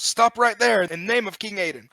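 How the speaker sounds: guard's yell. Acted. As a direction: yell it like a guard giving chase. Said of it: "and yells".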